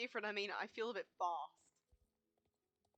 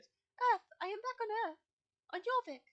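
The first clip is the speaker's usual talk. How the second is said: a higher, excited Fripp voice; voicing Fripp; 11 semitones higher, 8 dB louder than usual. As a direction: play the returned cosmic guide, thrilled. Fripp voiced by player, elated.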